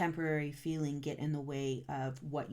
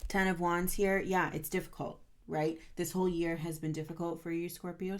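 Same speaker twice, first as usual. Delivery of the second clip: firm, louder push at the start, then easing; a little stern; 3 dB louder than usual. Real, not acted. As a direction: sternly urge the listener on, like a coach. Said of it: "I'm getting a little stern in my voice".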